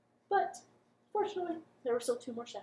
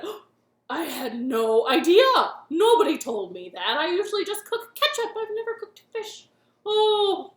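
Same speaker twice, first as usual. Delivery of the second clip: appalled monster chef; 10 dB louder than usual. Acted. Monster chef apologising to the fish. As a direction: gush it out, flustered and shocked.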